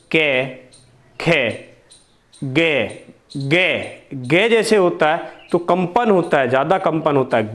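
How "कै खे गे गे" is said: कै, खे then a buzzing गे, held apart; consonant sounds demo. Shown as a demonstration. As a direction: let the class hear the buzz in गे. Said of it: "देखिए". (गे में कंपन दिखाते हुए उच्चारण)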